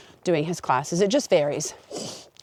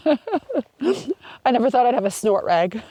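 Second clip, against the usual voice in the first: laughing at herself; 5 semitones higher, slower than usual. Real, not acted.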